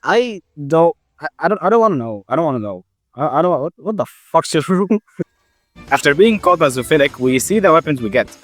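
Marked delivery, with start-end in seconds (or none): none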